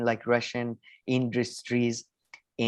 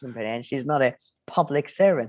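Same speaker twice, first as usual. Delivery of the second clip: mock politician dodging the question, pitched up and a bit louder; Rishi Sunak impression; 2 semitones higher, 3 dB louder than usual. Mocking Rishi Sunak dodging the interviewer, lightly raised and louder. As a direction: play the evasive chancellor brushing off the interviewer. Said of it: "and he's like".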